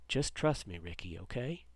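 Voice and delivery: softly, low-key, hushing his son; quietly. A narrator's reading. Dad calms scared Ricky across the street, quietly. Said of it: "quietly said".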